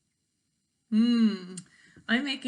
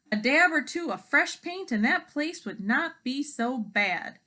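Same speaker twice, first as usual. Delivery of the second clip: hen voice; 5 semitones higher, 3 dB louder than usual. Acted. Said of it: "said the first hen".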